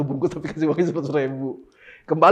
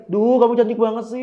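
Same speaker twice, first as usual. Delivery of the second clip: gushing, exaggerated compliment, a bit louder; over the top; 6 semitones higher, 6 dB louder than usual. Shown as a demonstration. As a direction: ham up the compliment to the mirror. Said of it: "Coba ngomongnya agak lebay gitu". (lebay, memuji berlebihan)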